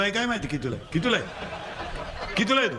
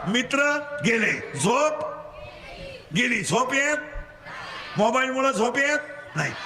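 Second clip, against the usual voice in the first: call-and-response preaching; 5 semitones higher than usual. Real, not acted. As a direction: leave the end rising for them to finish. (पोरांकडून वदवून घेणारा चढा सूर)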